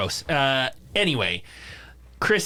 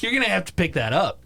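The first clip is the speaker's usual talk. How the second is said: put-on higher-pitched scolding in an American accent; self-righteous American stranger telling someone off; 6 semitones higher, faster than usual. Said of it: "imitating that guy in an American accent".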